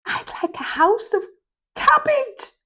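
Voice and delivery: high squeaky pig talking with mouth full. Acted. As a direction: say it through a mouthful of food. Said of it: "answered Whisper with a mouthful".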